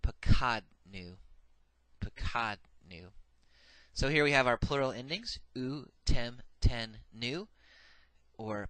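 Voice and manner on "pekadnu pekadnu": "pekadnu" said slowly, every syllable separate; Hebrew pronunciation demo. Shown as a demonstration. Teacher modelling the first plural form, slow and clear. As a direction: draw out "pekadnu" so students catch it. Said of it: "And then the first common plural".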